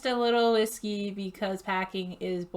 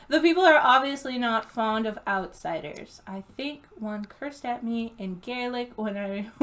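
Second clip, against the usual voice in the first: usual speaking voice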